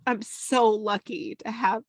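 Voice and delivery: tearful, speaking through happy tears; proud tears. Real, not acted. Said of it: "that I'm crying now".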